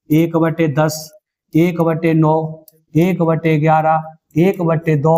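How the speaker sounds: very slow, every fraction drawn out; slow dictation. Acted. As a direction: read the examples slowly so pupils can write. Dictating examples to pupils.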